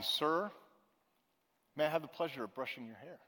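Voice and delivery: soft, hushed polite question; quietly. A narrator's reading. Beth quietly asking the old man, hushed. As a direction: ask it gently so nobody notices. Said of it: "she said quietly".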